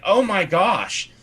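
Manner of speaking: high, drawn-out mock astonishment; amazed crowd. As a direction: gasp it slowly as an awed onlooker. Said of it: "everyone's like".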